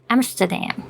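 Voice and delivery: Amsterdam said American style, a flat "a" and "dam" at the end; American pronunciation. Shown as a demonstration. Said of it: "Like, Americans is".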